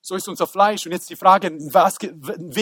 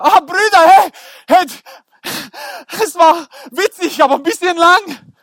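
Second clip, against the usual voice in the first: Joseph relieved; 7 semitones higher, 5 dB louder than usual. Acted.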